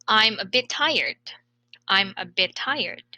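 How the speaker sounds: "bit tired" run together with a single t; linked as one word. Shown as a demonstration. Teacher models linking for students to repeat, linked as one word. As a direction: glide through "I'm a bit tired" without gaps. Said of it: "read it as one word".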